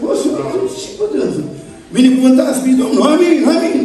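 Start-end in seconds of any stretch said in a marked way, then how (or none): 2.0-3.8 fervent praise. Retold or imitated. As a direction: shout the blessing like a convert. Sober brother suddenly praising loudly.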